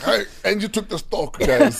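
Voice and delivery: giggling while voicing the friend; laughing. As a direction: quote spoken through laughter. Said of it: "And he's like".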